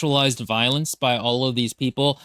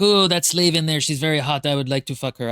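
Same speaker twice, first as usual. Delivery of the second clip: leering pirate in a mock French accent. Pirates eyeing a slave, in a French accent. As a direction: play the pirate as a lecherous Frenchman. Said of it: "I don't know why I made them French".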